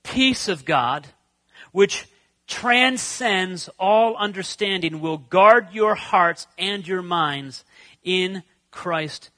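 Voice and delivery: slow, measured scripture reading in unison; slow recitation. Shown as a demonstration. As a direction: recite it slowly with the congregation. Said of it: "say this with me".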